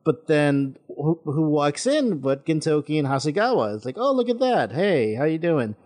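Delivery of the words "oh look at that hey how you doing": mock surprise. Greeting the main characters walking in, mock-surprised. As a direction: act as if pleasantly caught off guard.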